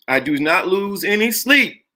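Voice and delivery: normal talking voice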